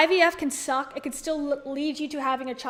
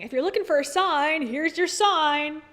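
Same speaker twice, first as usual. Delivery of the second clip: Dave's catchphrase; 2 semitones higher, 4 dB louder than usual. Retold or imitated. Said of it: "That's Dave saying".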